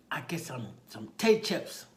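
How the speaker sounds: put-on small child's insistent voice; little boy. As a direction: announce it like an eager little kid. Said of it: "there's a little boy there".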